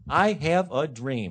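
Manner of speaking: slow, grand oratory; the famous line, slow and stately; orator's delivery. Shown as a demonstration. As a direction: deliver it slowly like a great orator. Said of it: "Look at that".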